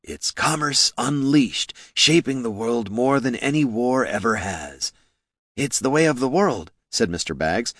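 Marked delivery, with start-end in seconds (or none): 0.0-4.9 slow, grand character voice; pontificating boss. A narrator's reading. 5.5-6.7 higher-pitched grand character voice; lofty pronouncement; pompous boss. A narrator's reading. Second boss pontificates in agreement.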